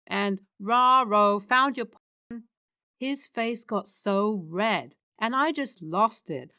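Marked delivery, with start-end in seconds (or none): 0.6-2.4 loud goofy cartoon dog voice; Scooby. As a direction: do a bad talking-dog impression, big and drawn out. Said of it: "worst Scooby impression".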